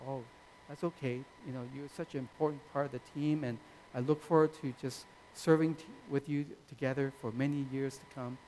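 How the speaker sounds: softly imitating a forgiving mentor; gentle reassurance. Pastor reassuring a team member who apologised, gentle. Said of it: "gentle people who".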